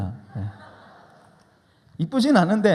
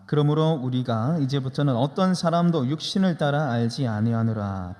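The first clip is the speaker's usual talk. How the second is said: steady unison-style recitation; lightly formal Bible reading; scripture reading; 3 semitones lower than usual. Acted. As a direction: read the verse aloud evenly with the congregation. Congregation reads scripture aloud.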